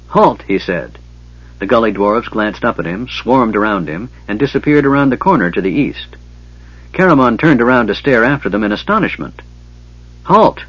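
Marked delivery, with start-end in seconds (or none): 0.1-0.4 short, high-pitched order to stop; commanding. A narrator's reading. Warrior stopping running gully dwarves, commanding. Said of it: "his huge arm raised commandingly". 10.2-10.6 belated high call, not really meant; half-hearted. A narrator's reading. Warrior calling after vanished dwarves, half-hearted. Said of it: "he said half-heartedly".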